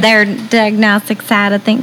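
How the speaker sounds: "side" flattened to "sad", mimicking; mock the long I, turning "side" into "sad"; imitated vowel slip. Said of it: "Have problems with the long eye".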